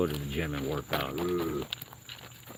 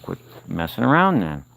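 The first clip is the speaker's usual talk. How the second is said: louder, exasperated scolding; aggravated; 6 dB louder than usual. Real, not acted. Man telling off scratching raccoons, real aggravated yell. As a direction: snap out a fed-up warning. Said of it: "I get aggravated".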